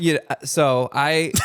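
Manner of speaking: talking slow. Real, not acted. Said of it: "Why are you talking so slow?".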